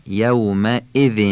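"یومئذ" slowly, with a sharp catch on the hamza. Shown as a demonstration. Teacher shows not to glide past it, sharp hamza. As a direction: hit the hamza in "یومئذ" crisply.

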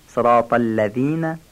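الذین with a thin, tongue-tip ذ. Shown as a demonstration. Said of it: "نازک و نوک زبانی گفته بشه". (ذال نازک و نوک زبانی)

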